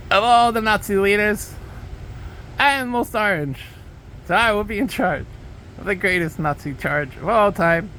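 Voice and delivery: lightly voiced blustering Trump boast; mock Trump. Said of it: "do a good accent".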